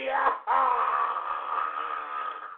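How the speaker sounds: long drawn-out wail; raging howl. Real, not acted. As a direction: howl out the rage without words. Rage spills into a howl.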